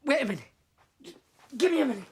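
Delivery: breathless, gasping for air; panting between words; out of breath. Acted. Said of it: "Let me catch my breath".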